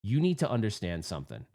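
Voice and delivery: measured, understated gravity; retold seriousness. Pissed player addressing his friend after the game, mildly serious. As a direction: say it as a mild, earnest warning. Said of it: "And I said it just like this".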